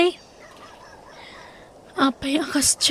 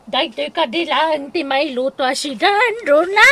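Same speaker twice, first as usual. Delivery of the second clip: calling out; 4 semitones higher, 3 dB louder than usual. Acted. Calling out to Rona.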